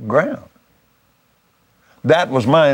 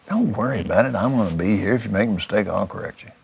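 softly reassuring, trailing lower; retold low, soft reassurance from a mentor; quiet reassurance; 5 semitones lower, 6 dB quieter, faster than usual. Mentor steadying a nervous helper before praying, quietly reassuring.

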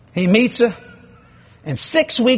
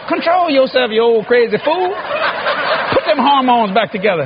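exasperated scolding; 4 semitones higher than usual. Retold or imitated. Son's scolding thought watching father kiss.

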